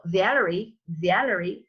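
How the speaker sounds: Valerie with a broad American A; American-style Valerie, rounded R; American accent. Shown as a demonstration. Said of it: "an American name".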